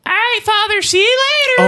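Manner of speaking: put-on high-pitched kid saying goodbye to the priest; squeaky kid voice. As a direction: pitch way up like a little boy. Kid character farewell.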